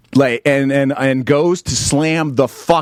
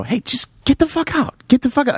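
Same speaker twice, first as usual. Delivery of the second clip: retold high-pitched yell to get out; high mock yell; 10 semitones higher than usual. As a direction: shout him out in a high voice. Retold telling heckler to leave.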